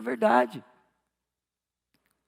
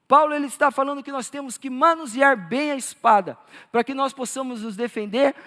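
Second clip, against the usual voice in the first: firm, emphatic pulpit delivery; preaching; 3 semitones higher, 4 dB louder than usual. Real, not acted. Pastor explaining the sword of the Spirit to believers, emphatic preaching. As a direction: preach it with conviction.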